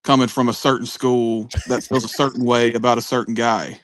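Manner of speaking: "certain" emphasized every time it comes; stress on "certain". Real, not acted. Co-host hinting about a school and a guy, stress on "certain". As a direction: lean pointedly on each "certain". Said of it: "you saying certain pretty with emphasis on it".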